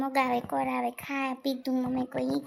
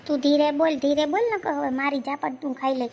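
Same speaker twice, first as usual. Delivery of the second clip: angry scolding; 4 dB louder than usual. Acted. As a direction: shout him down, threatening a slap. Mother scolds son in quarrel.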